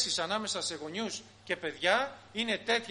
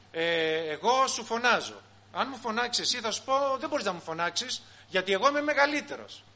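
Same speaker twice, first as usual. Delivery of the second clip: indignant elder; 3 semitones higher, 4 dB louder than usual. Acted. Elder justifying shouting by age.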